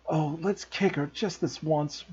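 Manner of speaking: soft, slow whispered aside; whispering. A narrator's reading. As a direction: whisper it into his ear. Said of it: "Ron whispered in Harry's ear".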